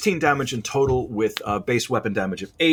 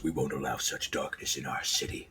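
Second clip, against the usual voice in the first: snarling accuser; 10 semitones lower, 11 dB quieter than usual. Acted. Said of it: "the first continues".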